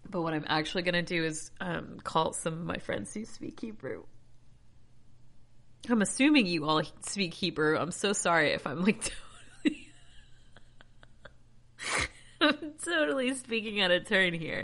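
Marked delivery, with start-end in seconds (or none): 5.9-14.6 loud, giggly apology breaking off into laughs; emotional, flustered. Real, not acted. Reader apologizing to friends who may speak Hebrew, emotional and flustered. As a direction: blurt it out, overcome. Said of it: "Don't know why I got all emotional".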